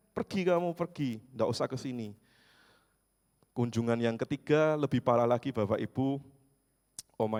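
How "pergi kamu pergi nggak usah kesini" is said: put-on grumpy old woman. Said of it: "teriak-teriak".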